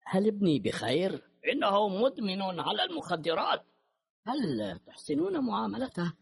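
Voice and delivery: gentle and polite, with hurt; a worried father asking softly; soft, pained voice. Acted. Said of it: "ناعما ومهذبا، مشوبا بالألم".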